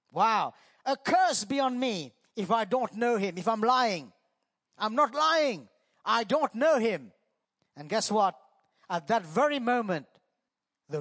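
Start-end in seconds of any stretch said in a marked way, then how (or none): 0.9-7.1 acted curse. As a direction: swear it, pressing harder each line. Preacher acts Peter's cursing.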